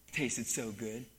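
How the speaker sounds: soft, low, slow savouring voice. Retold or imitated. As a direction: relish every word like a treat. Wrestler savours the chicken fingers.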